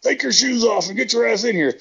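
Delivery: hammed-up order from the king of the motorhome; imitating Evil's holler. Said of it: "Evil's like".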